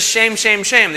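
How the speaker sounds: lightly voiced scolding church lady; a hint of a tutting church lady. Preacher imitating the old church lady, lightly scolding. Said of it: "the old church lady from Saturday Night Live".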